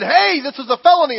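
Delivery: stern fireman warning. Retold or imitated. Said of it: "The fireman walked up ... and said".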